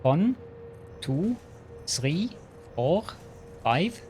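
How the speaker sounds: put-on counting in a Transylvanian accent. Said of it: "count with a Transylvanian accent".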